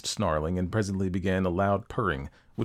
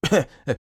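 short, loud acted cough; 8 semitones higher, 7 dB louder than usual. A narrator's reading. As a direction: cough before carrying on. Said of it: "He coughed and added".

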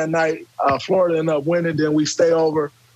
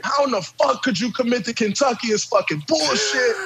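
retold angry coach; 5 semitones higher than usual. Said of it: "we're having a screaming match".

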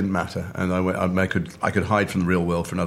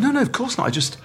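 mortified; 3 semitones higher than usual. Retold or imitated. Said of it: "I was so mortified".

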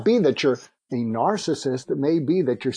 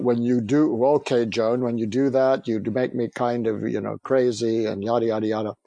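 stiff, reluctant; 2 semitones lower than usual. Retold or imitated. Husband forced to voice feelings to his wife, stiff and reluctant. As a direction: grudgingly push out the words he was told to say. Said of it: "he's a little bit constipated".

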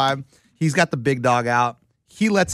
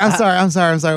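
higher, louder, laughing apology; flustered apology; 4 semitones higher, 4 dB louder, much faster than usual. Retold or imitated. Starstruck snack bar workers to a waiting customer, flustered. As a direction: apologise through giddy laughter, pitched up. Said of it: "And they're like".

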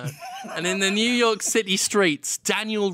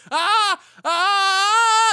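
high loud hammed-up screaming; mock screams; 7 dB louder than usual. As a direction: scream at the hornets. Neighbours screaming.

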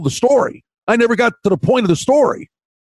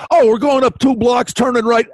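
put-on a kid's cheerful directions; 5 semitones higher than usual. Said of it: "And the kid goes".

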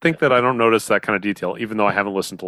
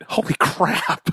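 surprised; 8 semitones higher, slower than usual. Real, not acted. Sudden realisation cruise is near.

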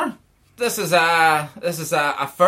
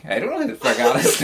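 confused guest; faster than usual. Retold or imitated. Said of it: "you could see on their faces".

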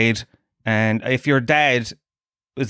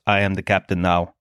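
lower, menacing hostage-movie line; stern movie-line threat; 5 semitones lower than usual. Retold or imitated. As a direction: deliver it as a cold takeover threat. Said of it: "the mother goes to the father".

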